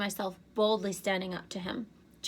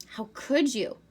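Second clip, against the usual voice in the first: higher and louder, furious accusation; angry outburst; 5 semitones higher, 6 dB louder, slower than usual. A narrator's reading. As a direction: hurl it at him, outraged. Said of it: "Annabeth sounded so angry".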